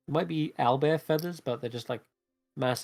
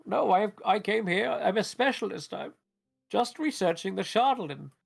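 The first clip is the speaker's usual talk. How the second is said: put-on high-pitched, pleading old wizard; higher voice, hard-pressed old man; poor old wizard; 8 semitones higher than usual. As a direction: protest as a hapless old wizard. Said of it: "the poor old wizard replying".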